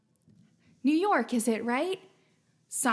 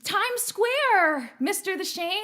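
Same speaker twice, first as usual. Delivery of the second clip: put-on New York accent; 6 semitones higher, slower than usual. Host teasing a chat viewer, mock New York accent. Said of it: "Am I doing the New York accent all right?".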